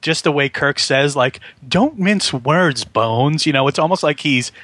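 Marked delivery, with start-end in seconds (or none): 1.7-3.5 slow, higher-pitched wry retelling; slightly amused. Retold or imitated. Imitating Kirk as he asks Bones for candour, amused. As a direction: draw the words out with light amusement. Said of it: "he thinks it's a little, like, a little funny".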